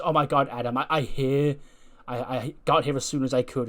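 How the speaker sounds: retold eager, happy greeting. Ren arrives in Adam's office keen for the job, happy. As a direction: play her all happy, a touch excited. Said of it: "she's all happy".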